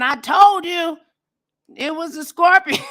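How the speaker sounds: high told-you-so singsong; mocking Deidre. Deidre gloating to the drowned group, high and smug. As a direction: tease it up high like a smug friend. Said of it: "Deidre was the only one saying".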